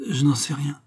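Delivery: with a long sigh. A narrator's reading. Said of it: "avec un long soupir".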